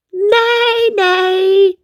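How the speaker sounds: high, loud honking goose cry. Acted. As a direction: honk it like a goose. Goose call imitated.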